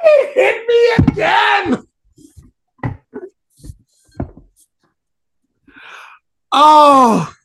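high, loud crying out in pain; slow, strained pained cry; biting down on pain. Real, not acted. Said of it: "I'm in so much pain right now".

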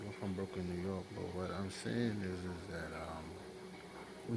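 softly, as if speaking from bed; low, sleepy-sounding. Real, not acted. Caller keeping his voice down at a clinic, low and subdued. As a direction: let the voice sink low, trailing into hesitation. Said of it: "you sound like you either in bed".

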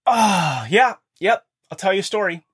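a forced, put-upon "yep"; reluctant yes. Retold or imitated. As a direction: agree while clearly not wanting to. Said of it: "but my tone".

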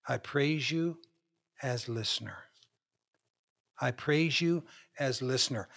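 quiet, near-whispered prayer; hushed breath prayer. Shown as a demonstration. Pastor demonstrating meditative prayer, very soft. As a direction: let it fall away to a hush. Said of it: "try to relax".

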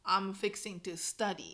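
slow Texan "I'm fixing to study"; easy, drawn-out Southern phrasing; Southern drawl. Shown as a demonstration. Teaching a Texan phrase, slow Southern drawl. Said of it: "フィクシングって言うんだけど".

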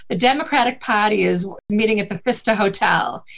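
put-on Boston accent, R dropped in "Party". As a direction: read it out like a Bostonian newscaster. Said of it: "I've worked my accent out".

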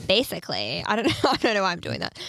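put-on Jersey accent. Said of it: "in control of the switch".

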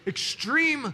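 high, loud, slow laughing lament; laughing complaint. Real, not acted. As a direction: laugh through the mock suffering. Laughing over sleepless night.

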